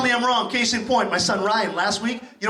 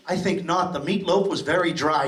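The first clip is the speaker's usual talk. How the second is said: mock prim refusal; 5 semitones lower than usual. Acted prim refusal in imagined conversation.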